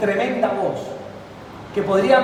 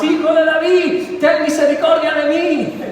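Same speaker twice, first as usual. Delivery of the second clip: crying out; 5 semitones higher, slower than usual. Acted. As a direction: call out for mercy, drawn out. Bartimeo crying out to Jesus. (Bartimeo clama a Jesús, lento y alto)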